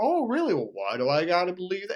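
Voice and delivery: mock sarcastic smart-aleck tone, swooping pitch. Retelling own reply to an ex-partner: imitating own smartass reply. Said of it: "I'm being like a total smartass".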